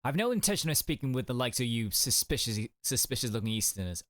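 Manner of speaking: put-on a touch of Scottish accent; attempted Scottish accent. Prison governor refusing suspicious visitors, attempted Scottish accent. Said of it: "He's Scottish?".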